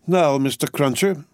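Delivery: bustling, bossy housekeeper; Miss Pross voice. A narrator's reading. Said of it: "said Miss Pross".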